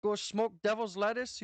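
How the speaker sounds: mock North Dakota accent offering a smoke. Shown as a demonstration. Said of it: "that's how we talk".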